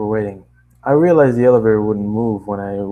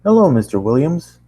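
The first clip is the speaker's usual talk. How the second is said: lightly voiced desk clerk, higher and louder; front-desk man voice; 5 semitones higher, 5 dB louder than usual. Man at the front desk greets the tenant, lightly voiced. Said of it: "I'm gonna change his voice a little bit".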